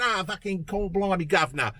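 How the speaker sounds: imitating a politician faking a Cockney accent; mock Cockney accent. Vlogger mocking the candidate's accent changes in put-on Cockney. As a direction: put on a hammed-up Cockney twang. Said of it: "If she went down to Cockney land".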